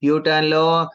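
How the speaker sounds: lightly imitated GPS voice, slow, drawn-out directions; a hint of sat-nav, words stretched slowly. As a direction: call out turns like a navigation system, slowly. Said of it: "वो GPRS बोलेगा".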